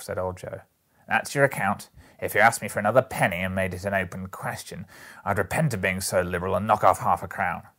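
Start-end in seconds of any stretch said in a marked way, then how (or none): 1.1-7.7 lightly voiced gruff dealer, fairly loud; old Joe, firm. Old Joe refuses the ladies another penny, firm. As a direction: lay down the terms with emphasis.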